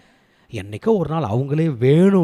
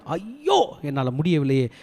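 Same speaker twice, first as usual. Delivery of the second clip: acted anguished cry; slower than usual. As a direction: imitate a grieving wail. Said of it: "He was crying". (துயரத்தில் அலறுவது போல நடித்து)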